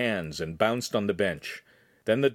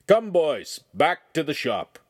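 calling out; 6 semitones higher, 4 dB louder, slower than usual. Acted. Master calls boys.

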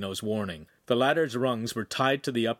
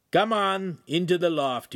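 higher, louder command; ordering; 7 semitones higher, 4 dB louder than usual. A narrator's reading. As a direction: bark them into the loft. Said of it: "Ugolino ordered".

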